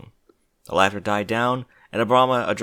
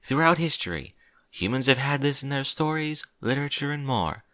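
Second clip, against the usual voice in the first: slightly higher princess voice; lightly voiced regal princess; 4 semitones higher than usual. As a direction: lightly play a princess addressing an assembly. Voices Princess Celestia's speech.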